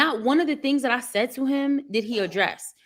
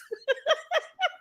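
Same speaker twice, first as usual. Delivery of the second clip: high laugh; 4 dB quieter than usual. Real, not acted. Laughing at God's timing story.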